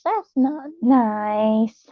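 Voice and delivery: slow, drawn-out pretend pout; playful scolding, stretched slow; mock hurt. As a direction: tease them with a fake wounded tone. Mock hurt reply to chat.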